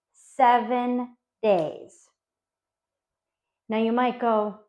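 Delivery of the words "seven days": "seven days" drawn out slowly, word by word; emphatic SEVEN DAYS. Real, not acted. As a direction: land "seven" and "days" separately, very slow. Correcting four and five to seven.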